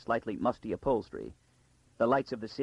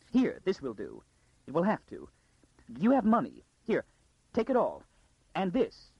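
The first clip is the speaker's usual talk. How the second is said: urgent, high-pitched bursts; frantic woman; 6 semitones higher than usual. A narrator's reading. Lady hurriedly loads the fleeing girl with money, frantic. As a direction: press it on her in short, high, frantic phrases.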